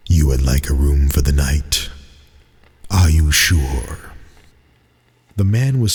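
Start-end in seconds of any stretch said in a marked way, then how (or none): 0.1-4.1 a doubtful host questioning the guest; ominous innkeeper. Acted. Innkeeper voiced in story.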